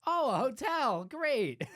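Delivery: high, loud sarcastic "great"; hammed-up sarcasm at the hotel; mock sarcastic. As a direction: sneer it like an unimpressed guest. Mock sarcastic traveler quote.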